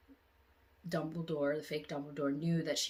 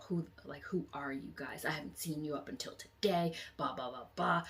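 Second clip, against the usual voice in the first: a hint of a cold menacing girl; 2 semitones lower, 4 dB quieter than usual. Possessed girl turning on the friends, quiet lightly menacing voice. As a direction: quietly threaten the intruders. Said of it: "she was like".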